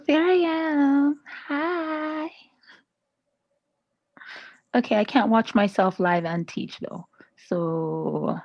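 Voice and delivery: ordinary talk, nothing marked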